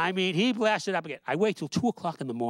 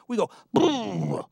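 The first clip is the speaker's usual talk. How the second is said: leprechaun punchline; 5 semitones higher, 3 dB louder, slower than usual. Acted.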